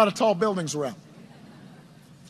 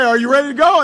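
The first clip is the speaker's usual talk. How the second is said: louder, higher call; rallying question; 3 semitones higher, 7 dB louder, faster than usual. Retold or imitated. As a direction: pump the staff up with it. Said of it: "They'd say".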